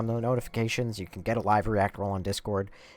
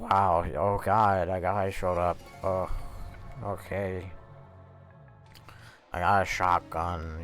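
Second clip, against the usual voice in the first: play-acted drowsy, half-awake, slow, low-energy delivery; 3 semitones lower than usual. Speaker acting out how he sounds live when fighting to stay awake: imitating his sleepy self. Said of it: "I'm probably talking like this".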